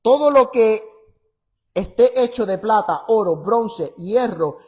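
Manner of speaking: loud, emphatic Bible reading; forceful pulpit reading with measured pauses; scripture reading. Acted. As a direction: proclaim the verse firmly, phrase by phrase. Reads scripture aloud forcefully.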